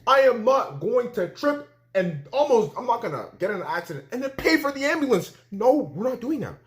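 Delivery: hammed-up squeaky protest; mock refusal. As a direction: refuse flatly, voice rising to a squeak. Acted refusal to pay.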